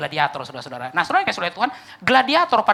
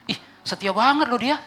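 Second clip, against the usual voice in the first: higher-pitched, gushing marvel; mock admiration; 4 semitones higher than usual. Onlookers praising the loyal wife, mock admiring gush. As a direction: coo in exaggerated approval.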